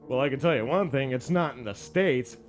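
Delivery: knowing, conspiratorial tone with a wink; a slightly sly patient hinting to John. Retold or imitated. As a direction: tell the secret like you're winking. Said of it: "he's like".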